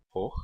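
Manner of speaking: "hor" as one short closed syllable with an "o". Shown as a demonstration. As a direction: say "hor" alone as the example syllable. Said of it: "somente ocorre em sílabas fechadas e átonas".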